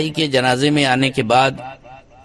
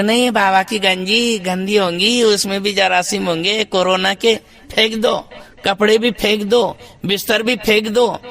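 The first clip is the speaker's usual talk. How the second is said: mock heirs; 3 semitones higher than usual. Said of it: "بولے".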